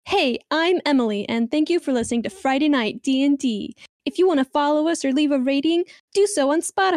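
bright, cheerful phone-operator voice; customer service voice. Shown as a demonstration. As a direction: sound like a friendly help line. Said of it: "I can do it super customer service".

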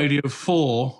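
slowed right down, every syllable drawn out; slow Radio Four delivery. Shown as a demonstration. Presenter showing off his slow radio voice. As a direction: stretch it out like a posh continuity announcer. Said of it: "if I slow down my delivery".

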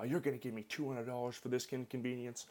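mock angry demand. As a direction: imitate an angry driver demanding payment. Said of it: "He's yelling at me".

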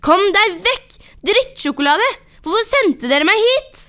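høyt, lyst, sint skrik; raseriutbrudd. Acted. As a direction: rop i raseri, trekk ut siste spørsmål. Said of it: "raseriutbruddet mitt". (rasende rop)

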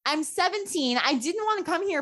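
high-pitched imitation of tearful teen self; mock-tearful protest; retold bawling. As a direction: plead it high, lightly mimicking a crying teenager. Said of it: "bawling her eyes out".

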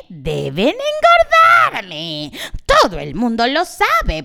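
prim, scolding hen of a lady; a lightly voiced turkey tutting at the mess; fussy lady turkey. Turkey lectures the animals. (señora pava remilgada regañando)

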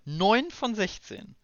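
high, slow count call; slow announcing. Pretend. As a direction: announce it drawn out. Counting progress aloud.

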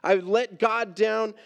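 preacher's impassioned voicing of a despairing believer; anguished self-reproach. Preacher voices Peter's pain at failing God, anguished self-reproach. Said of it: "the pain had to felt like more than he could take".

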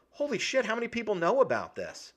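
a character hit by unwelcome news; startled. Acted. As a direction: blurt it out in sudden shock.

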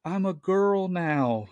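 high, slow, tearful little-boy voice, mildly acted; crying child. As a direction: imitate a four-year-old wailing his discovery. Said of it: "he's, like, crying".

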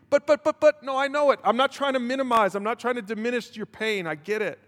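choked up, voice climbing then sinking; real emotion breaking through the sermon; emotional. Real, not acted. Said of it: "you can tell I'm emotional".

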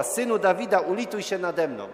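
high, loud imitated plea, easing at the end. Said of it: "więc jeszcze głośniej woła".

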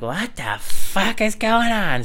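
slow, high and loud disbelief; bewildered outcry. Retold or imitated. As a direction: drag it out, totally baffled. Stranger dumping garbage for water.

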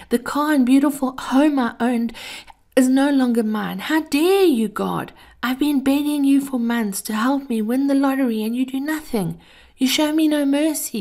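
high, loud furious tirade; screaming at God. Acted. Ruined man screaming his tirade at God, high and loud. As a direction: rage at heaven with everything you have. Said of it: "he screamed at the heavens".

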